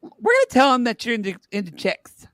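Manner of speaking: a hint of a pushy reality-show producer; producer Tyler. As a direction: coax her like a pushy TV producer. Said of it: "gay twink producer named Tyler".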